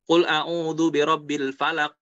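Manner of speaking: slow, careful recitation of kul a'udhu birabbil falaq; slow Quranic recitation. Shown as a demonstration. Teacher reciting the verse in slow tajwid. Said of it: "reciting the verse slowly".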